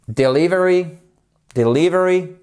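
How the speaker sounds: "Delivery" with LIV stressed; de-LIV-ery, punch the second syllable. Shown as a demonstration. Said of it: "accent tonique sur la deuxième syllabe".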